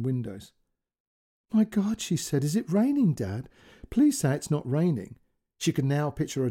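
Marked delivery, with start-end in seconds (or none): 1.5-5.2 panicked plea. Acted. Pleading mother in panic.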